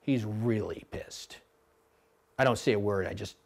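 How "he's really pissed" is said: hushed whisper among rowers; whispered crew gossip. Retold or imitated. Rowers whispering about their silent coach, hushed. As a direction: whisper it so Tom won't hear. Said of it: "And they're like".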